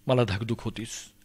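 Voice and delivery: low-key, soft worry; subdued anxious murmur; hushed dread. Acted. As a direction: say it softly, as if to oneself. Dread voiced low, then repeated stronger.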